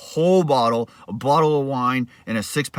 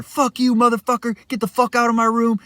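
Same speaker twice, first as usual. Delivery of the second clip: much higher, angry yell; 9 semitones higher than usual. Retold or imitated. Fighting the roommate at one in the morning, angry yell. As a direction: scream it back in the fight. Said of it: "we're yelling at each other".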